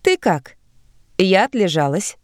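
бодро и выше обычного; весело, с подъёмом. Acted. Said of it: "бодрым голосом начала Зельда". (бодрым голосом)

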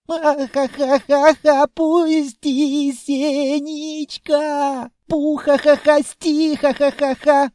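high, loud squealing laughter through words; laughing while tickled. A narrator's reading. Tickled child laughing and begging the monster to stop. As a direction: giggle helplessly while pleading. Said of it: "не обратил внимания на крик".

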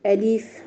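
أليف with the kasra stretched into a long ee; أليف said wrongly with a drawn-out i; wrong alif. Shown as a demonstration. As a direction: stretch the middle vowel in أليف. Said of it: "خطأ أيضًا".

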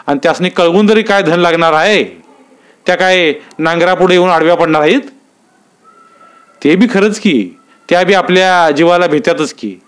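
village men talking. Acted. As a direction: argue it over like farmers at the chavdi.

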